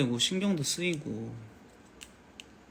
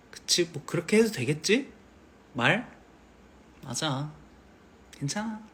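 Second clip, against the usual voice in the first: gentle pushover dad. Pretend. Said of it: "이렇게 할 것 같아".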